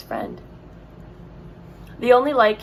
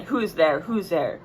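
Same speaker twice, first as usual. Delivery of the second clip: growling wolf; 2 semitones lower than usual. Acted. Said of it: "in a growling voice said".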